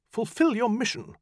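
high, cold magician commanding; stern command. Acted. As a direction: order the demon sharply. Farrar commands the demon.

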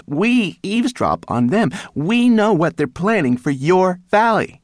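shrill, cross scolding; indignant little rat telling off bigger beasts. A narrator's reading. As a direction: lecture them loudly in a high, indignant voice. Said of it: "She looked around her crossly".

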